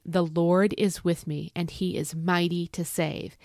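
slow, measured declaration; slow recitation. Shown as a demonstration. Speaker leading viewers in a slow, measured declaration. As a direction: lead the viewers in saying it slowly. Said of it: "Say it with me".

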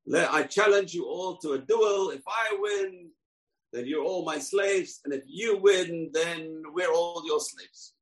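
a hint of a giant issuing a slow challenge; challenging giant. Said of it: "You hear the voice. This, this massive".

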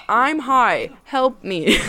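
half-laughing call for help; mock plea for help. Retold texts to friends.

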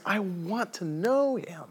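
slow, high, yearning declaration; heartfelt and drawn out; earnest longing. Acted. Paul's longing, against casual retake.

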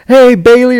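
high, loud mock hello; imitated breezy greeting. Chris greeting a waitress as she walks up, imitated breezy hello.

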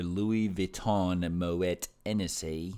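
French accent. Shown as a demonstration. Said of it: "I don't know where that accent came from".

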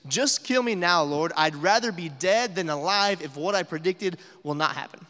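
ranting Jonah. Retold or imitated. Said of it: "His rant actually continues".

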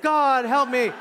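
high, loud mock plea; mock panic. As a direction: cry out in pretend terror. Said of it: "everybody would be like".

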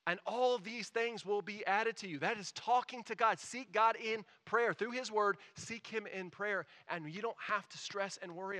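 emphatic preaching. Acted. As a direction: drive the exhortation home. Preacher builds to emphatic exhortation.

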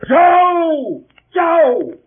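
loud, high call; shouting a name. Acted. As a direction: yell to wake him up. Shouting for the sleeping boy.

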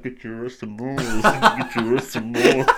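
mock old lady. Friend imagines a neighbour chanting, slow and laughing. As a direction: croon it like a lady outside.

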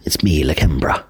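hushed, trying out a British accent; tentative British-accented self-introduction. Shown as a demonstration. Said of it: "sound a bit British then".

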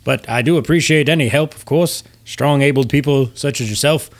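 lightly voiced, courteous ship's captain; a formal captain humoring his passenger; Captain Oso. Captain thanks a strong passenger, politely formal.

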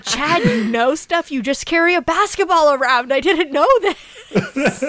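lightly voiced mocking girl; teasing girl voice. Quoting the girl teasing Chad.

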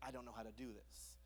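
soft, low, defeated murmur; quiet despair. Retold or imitated. Person overwhelmed by fear, quietly despairing. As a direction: let the panic drop to a hush.

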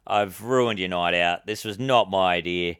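mildly sincere, subdued address; retold apology, understated and earnest; compassionate apology. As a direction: apologise gently to the audience. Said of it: "I had absolute compassion".

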